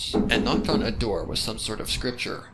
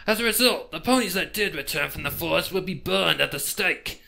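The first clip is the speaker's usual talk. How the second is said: higher, louder eerie lore voice; pony tells the detective the legend, eerie and raised; ominous storyteller pony; 8 semitones higher, 6 dB louder than usual. Acted. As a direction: spin the legend like a dark secret.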